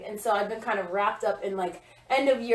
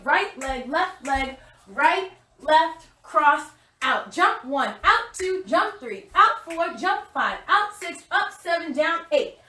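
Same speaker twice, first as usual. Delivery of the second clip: calling out counts; 4 semitones higher, 4 dB louder, slower than usual. Real, not acted.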